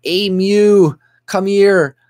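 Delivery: high, loud mock summons; mock boss calling an employee over, pitched high; imitating the boss. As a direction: call out like a boss botching a name. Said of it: "He's like".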